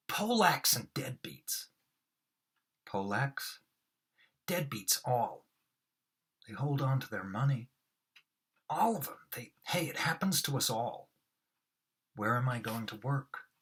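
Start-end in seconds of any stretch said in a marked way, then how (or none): 0.1-1.7 slow, higher, louder hammed-up read; theatrical overplayed read; overacted Moss. Shown as a demonstration. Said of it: "I really overact them". 4.5-11.1 hammed-up lament; overacted Moss. Shown as a demonstration. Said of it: "I really overact them".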